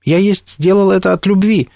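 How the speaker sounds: high-pitched, flustered protest. A narrator's reading. William answers the accusation of betrayal, flustered. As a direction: defend yourself, at a loss. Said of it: "растерянно ответил Уильям".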